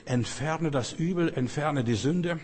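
high, slow, each "entferne" hammered home; emphatic command. Acted. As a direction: preach it as a solemn order. Preacher commanding to remove sin.

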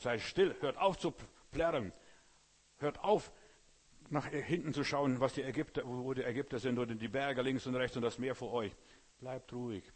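loud stern command to stop. Retold or imitated. The Lord ordering Israel at the sea, loud and stern. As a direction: order the people to be still. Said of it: "Als der Herr gesagt hat".

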